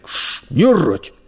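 lightly voiced menacing merchant; a touch of stern relish; threatening merchant. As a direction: frighten the boy, building to the final threat. Merchant hushes and threatens boy.

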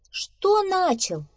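high, drawn-out astonished question; surprised. Acted. Squirrel to doubting beaver, surprised. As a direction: stretch it up high in disbelief. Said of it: "удивилась белка".

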